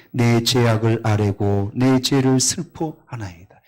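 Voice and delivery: loud, slow, solemn reading of the verse; scripture reading. Acted. Pastor reading the psalm aloud, loud slow solemn proclamation. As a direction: draw out the confession slowly and grandly.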